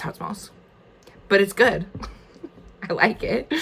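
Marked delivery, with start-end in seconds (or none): 0.0-0.5 plain; whispering. Real, not acted. Repeats the line under her breath.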